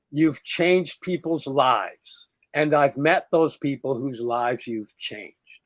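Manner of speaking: slow, heartfelt gratitude; sincere thanks. Retold or imitated. Scene: teller thanking the film producer at the after party, slow and sincere. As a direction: thank him slowly, meaning every word.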